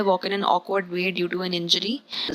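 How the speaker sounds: very slow, deliberate reading; slow dictation pace; slow example read. Shown as a demonstration. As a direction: spell it out slowly for students. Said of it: "English में यहाँ पर मतलब same लिखा हुआ है".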